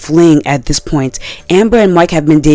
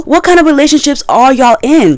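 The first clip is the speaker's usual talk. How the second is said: high, louder disbelief; incredulous; 10 semitones higher, 3 dB louder than usual. Real, not acted. Vlogger challenges fans, high incredulous outcry. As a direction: ask it in total disbelief.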